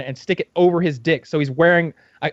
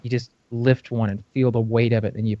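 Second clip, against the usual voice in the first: mock sultry dirty talk; 6 semitones lower than usual. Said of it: "talking dirty to them".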